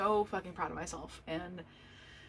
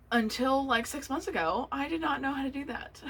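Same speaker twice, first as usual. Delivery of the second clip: choked up; 7 semitones higher, 3 dB louder than usual. Real, not acted. Choked up telling anxiety story.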